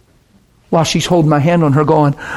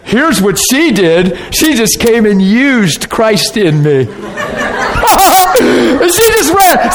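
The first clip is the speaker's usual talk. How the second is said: laughing through the words, slow and high; 6 semitones higher, slower than usual. Real, not acted. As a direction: chuckle while telling it, slowed down. Preacher laughing at the memory.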